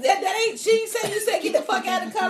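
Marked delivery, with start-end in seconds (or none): 1.4-2.3 light, high mock impression of a pop star; high imitation of a pop star. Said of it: "When you hit the pop star".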